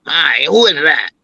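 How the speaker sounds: offhand, unwelcoming greeting; cool greeting. Retold or imitated. Grandmother greeting a black neighbor, cool and offhand. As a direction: answer a neighbor without warmth. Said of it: "gave another tone".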